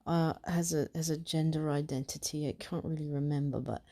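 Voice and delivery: put-on chatty British accent as a party trick. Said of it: "I'm not gonna do a fucking British accent".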